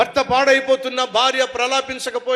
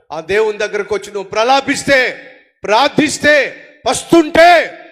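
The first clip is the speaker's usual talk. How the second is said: rising exhortation; 6 dB louder than usual. Real, not acted. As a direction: climb with each word until you are calling out. Preacher exhorting, voice building.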